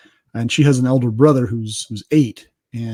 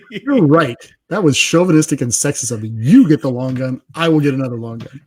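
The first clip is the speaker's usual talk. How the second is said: laughing concession; 7 dB louder than usual. Retold or imitated. Husband's retold concession to wife, laughing.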